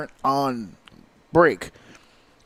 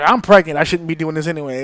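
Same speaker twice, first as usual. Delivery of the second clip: mock outburst; 3 dB louder than usual. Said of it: "And she's just like".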